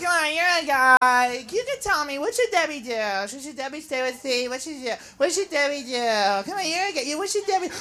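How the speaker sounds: put-on pleading girlfriend. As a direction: corner the guy for advice. Girlfriend asking guy for advice.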